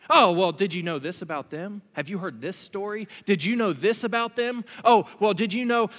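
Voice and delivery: dish dirt as a comeback; pointed, gossipy one-upping; mock gossip. Acts out gossiping to strike back.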